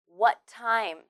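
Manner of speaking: "What time" joined with one t sound; linked t. Shown as a demonstration. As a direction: share a single t between "What" and "time". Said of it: "only need to say one t sound".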